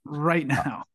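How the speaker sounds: breathy whispered aside. Pretend. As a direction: whisper it like a secret.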